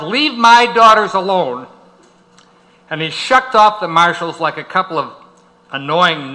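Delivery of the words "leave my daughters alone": a higher, somewhat louder mock yell; retold yell. Lawyer retelling the father's yell at the marshals, mildly raised. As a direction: echo a father's protective shout, lightly. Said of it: "Dave yelled".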